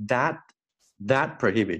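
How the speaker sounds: "That" with the final T held, unreleased; dropped T. Shown as a demonstration. Teacher showing the mouth shape, silent T in "that prohibit". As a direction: shape the T in "that" but don't let it out. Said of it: "这个T呢， 我们就给它丢掉了".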